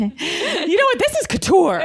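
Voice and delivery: high, slow laughing mock pronouncement. Real, not acted. Cohost echoes her through laughter, high and slow. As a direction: stretch it out high, giggling.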